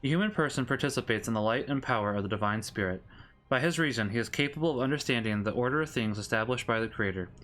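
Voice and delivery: measured Catechism read-aloud; steady, formal reading of a religious text; formal scripture reading. Real, not acted. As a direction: read doctrine out evenly, phrase by phrase.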